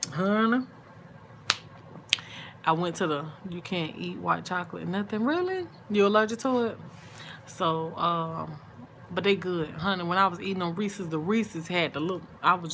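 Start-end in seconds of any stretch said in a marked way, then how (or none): 5.2-6.8 a sharp high "really" in disbelief; sudden surprised question. Real, not acted. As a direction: catch the comment and react with surprise. Reacting to a viewer comment.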